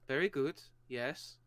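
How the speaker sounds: lightly put-on Norse accent; hint of a Scandinavian accent; Norseman accent. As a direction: play a Norseman, accented and measured. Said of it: "I have to use my Norseman".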